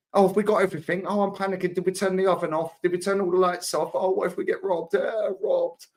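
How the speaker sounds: hammed-up fretting missus running through her worries; panicky wife. Voicing panicking wife on holiday.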